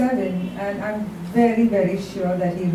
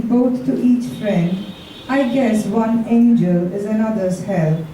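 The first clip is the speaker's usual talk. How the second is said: poem recital. Acted. Reads Shakespeare sonnet aloud.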